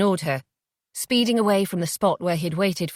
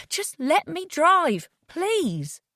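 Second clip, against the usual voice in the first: shaken pleading; 10 semitones higher, much slower than usual. Acted. Jay pleading with Felicity after hitting her.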